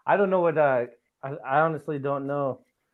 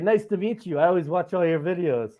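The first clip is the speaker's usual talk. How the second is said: put-on higher, louder, lightly Dutch-accented greeting; imitated Dutch fan; 5 semitones higher, 6 dB louder than usual. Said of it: "this big Dutch dude".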